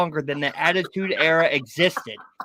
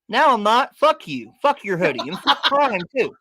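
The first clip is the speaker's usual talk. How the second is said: mock angry rant. Real, not acted. Angry fan ranting at Logan.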